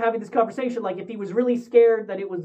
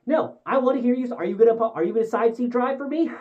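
teasing; 4 semitones higher than usual. Retold or imitated. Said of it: "In a more endearing way".

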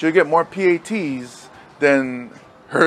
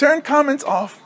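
laughing mock order; 12 semitones higher, 3 dB louder than usual. Coach joking about comments.

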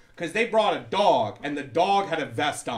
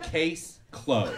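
mock lawyer. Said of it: "Like a lawyer".

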